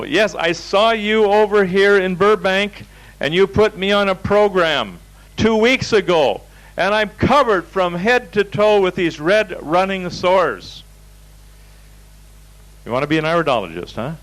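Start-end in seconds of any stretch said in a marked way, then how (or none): 0.0-10.8 acted angry patient. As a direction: imitate an outraged woman scolding her practitioner.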